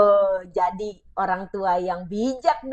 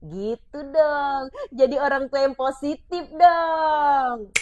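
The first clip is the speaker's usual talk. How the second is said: drawn-out urging; 4 semitones higher, 3 dB louder, much slower than usual. Real, not acted. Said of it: "urging parents, drawn out".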